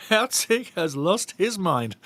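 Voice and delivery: slow, drawn out through laughter; laughing disbelief. Real, not acted. Fan cracking up at the referee's call, laughing. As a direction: laugh your way through it, incredulous. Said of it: "I gotta laugh".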